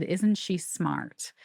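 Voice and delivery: very slow, each word drawn out; slow it right down like a voice from beyond; slow spirit voice. Retold or imitated. Medium relays her dead uncle's words, slow and drawn out.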